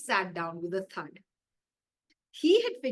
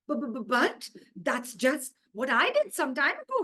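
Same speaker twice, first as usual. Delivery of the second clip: higher stuttering shock; squeaking stammer; 4 semitones higher, 4 dB louder than usual. Acted. Imam squeaks at the recording, a little higher and stammering. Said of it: "he squeaked".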